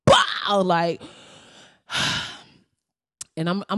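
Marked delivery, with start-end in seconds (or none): 0.0-0.6 imitated punch noise. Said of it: "smacked this motherfucker".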